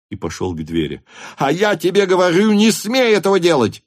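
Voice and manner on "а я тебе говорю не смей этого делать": high, loud yell; furious shout. A narrator's reading. Denisov shouts to stop Rostov, furious. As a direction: roar him to stop. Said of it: "закричал Денисов".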